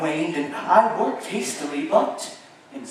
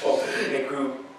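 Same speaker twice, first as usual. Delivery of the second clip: rising from hushed to loud and faster; building louder; 4 dB louder than usual. Acted. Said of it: "quicker and louder".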